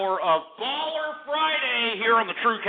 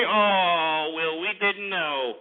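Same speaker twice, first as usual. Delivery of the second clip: mocking; much slower than usual. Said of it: "sit over here and say".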